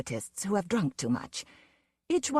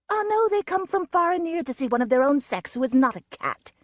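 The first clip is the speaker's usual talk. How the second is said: higher, louder, sneering tirade; scornful wolf woman; 7 semitones higher, 4 dB louder than usual. Acted. Wolf woman mocks the fat giant, loud and sneering. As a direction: jeer him down, rising in contempt.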